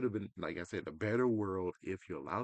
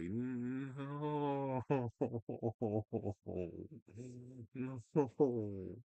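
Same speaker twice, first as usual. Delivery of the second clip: laughing mock protest; 4 semitones higher than usual. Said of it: "It's like".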